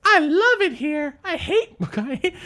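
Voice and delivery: high-pitched put-on accent, drawn out; exaggerated mock accent, way up high; Janu. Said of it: "why I'm using that accent for Janu".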